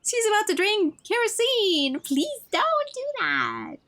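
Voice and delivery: very high, slow wail; panicked pleading. Acted. Eve pleading as she's about to drink kerosene, panicked. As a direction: wail and beg in mock panic.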